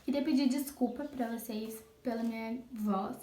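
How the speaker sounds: hoarse sore-throat voice; speaking through an inflamed throat; swollen tonsils. Real, not acted. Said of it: "estou com a minha garganta inflamada". (voz rouca de garganta inflamada)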